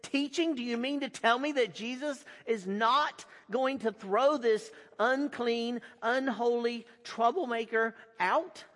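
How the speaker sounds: a worried crowd protesting; indignant crowd. Acted. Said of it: "exclaimed the crowd".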